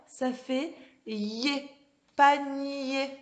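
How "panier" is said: PANIER with the y glide drawn out; stressed y glide. Shown as a demonstration. Teacher letting children hear the sound, PANIER with lingering y. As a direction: stretch the nyé ending of PANIER. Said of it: "Vous entendez le ye".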